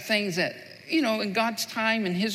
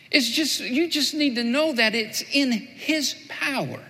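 slower emphatic restatement; 4 semitones higher than usual. Shown as a demonstration. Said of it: "Here's what Jesus is saying".

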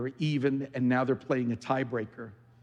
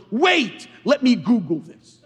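high, loud mock-baffled voice; mock puzzled God; 9 semitones higher, 9 dB louder, slower than usual. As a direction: play a God who has to look it up. Mocking God googling.

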